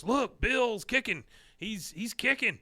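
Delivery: high-pitched excited onlooker; slow, high, swooping excited quote; acted excitement. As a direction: cheer it out as a mock spectator. Retold excited onlooker at contest.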